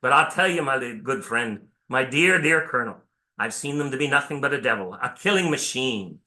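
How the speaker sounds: a preacher's rough Irish brogue for the weary soldier; Irish accent. Retold or imitated. Irish sergeant answering his colonel, in a rough Irish accent. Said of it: "and forgive my accent".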